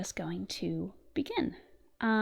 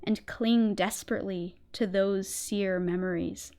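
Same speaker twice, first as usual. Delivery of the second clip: slow, hushed gothic storytelling; story narration. Acted. Reads the story in ASMR narration.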